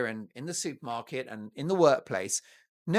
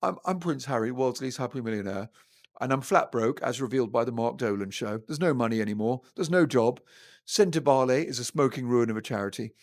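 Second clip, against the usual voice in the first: mock Prince Harry; 4 semitones lower than usual. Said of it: "his negotiating line is".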